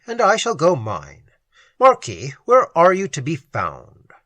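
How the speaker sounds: lightly voiced wry nobleman; a touch of courtly irony; dry courtly gentleman. The Conde declines politely.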